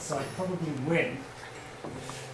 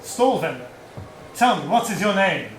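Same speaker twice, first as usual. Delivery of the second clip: louder call to the vendor; 6 dB louder than usual. Acted. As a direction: call across the market stall. Calling out to vendor.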